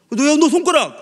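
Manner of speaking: high, loud startled exclamation; alarmed cry. Retold or imitated. Boy spots friend's injured finger, high loud alarm. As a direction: call out in sudden alarm. 친구 손가락 보고 놀라 외침.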